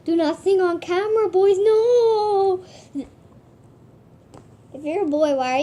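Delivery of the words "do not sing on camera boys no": mock scolding. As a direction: scold the boys, building to a long cry of no. Mock scolding after singing on camera.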